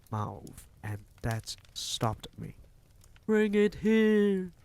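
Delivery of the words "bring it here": very high, loud, slow witch shout; shrieking command. A narrator's reading. Grand High Witch shrieking orders from the platform. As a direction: haul the brat to me. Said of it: "shouted the Grand High Witch".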